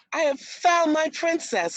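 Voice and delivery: high, loud triumphant announcement; joyful cry. A narrator's reading. Prince announcing his found princess, high and joyful. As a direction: proclaim it in triumph. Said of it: "cried the prince".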